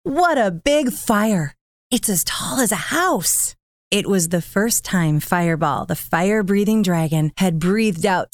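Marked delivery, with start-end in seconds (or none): 0.0-3.6 put-on high, amazed child voice; excited. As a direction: gasp in wonder at the fire. Child dragon marvels at fire.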